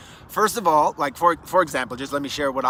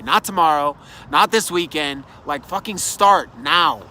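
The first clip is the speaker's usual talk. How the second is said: emphatic urging; 4 dB louder than usual. Real, not acted. Urging listener to act now.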